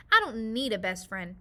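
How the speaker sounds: put-on child declaring to mom; defiant. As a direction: stamp it out stubbornly. Hannah insisting to mom.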